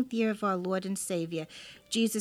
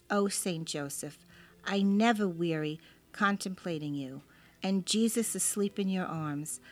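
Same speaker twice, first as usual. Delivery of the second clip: reverent prayer reading. Acted. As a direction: read it like a devout prayer. Reads a prayer aloud.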